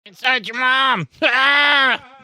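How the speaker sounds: high creature voice rising into a scream; high-pitched insult, then a drawn-out yell; angry little demon. Acted. Bottled demon insulting its captor, high angry creature shriek.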